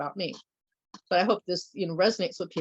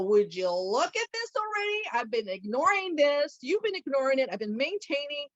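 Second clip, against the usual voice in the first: a hint of a scolding Mother Nature, pitched higher; voicing Mother Nature; 4 semitones higher than usual. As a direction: lightly play a nagging Mother Nature. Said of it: "She'll make the pain and go".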